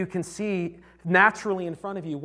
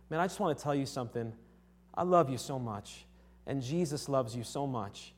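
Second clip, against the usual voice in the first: softer, lower, tender reassurance; gentle sincerity; 4 semitones lower, 6 dB quieter than usual. Retold or imitated. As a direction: disarm him quietly with affection. Retold tender reply to angry customer.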